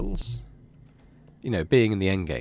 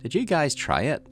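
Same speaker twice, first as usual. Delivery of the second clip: raised, amused dad teasing; laughing dad voice; 7 semitones higher, 4 dB louder than usual. Acted. Dad teasing his kid about the weed name, amused raised voice. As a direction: play the dad chuckling, in on the joke. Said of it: "Your dad laughs".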